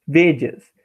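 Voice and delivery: "Vedias" as ve-dyas, weak e gliding into a; vowels joined. Shown as a demonstration. Teacher showing the weak vowel, "Vedias" run together as ve-dyas. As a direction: glide the end of "Vedias" into one syllable. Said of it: "ele junta com A".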